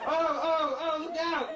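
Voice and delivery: high mock-panicked child; alarmed kid. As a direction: imitate a kid blurting out a warning. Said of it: "Because kids are so honest".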